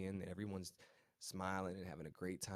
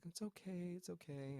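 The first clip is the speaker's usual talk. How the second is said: higher, softer insistence; wife covering for him with the police, hushed; soft reassurance; 10 semitones higher, 6 dB quieter than usual. Retold or imitated. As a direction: quietly wave it away. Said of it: "She's like".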